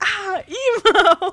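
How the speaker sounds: high-pitched, loud, shrieked screaming outburst. Retelling a scene where a lady passing by screams: imitating someone screaming. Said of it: "she screams at him, like".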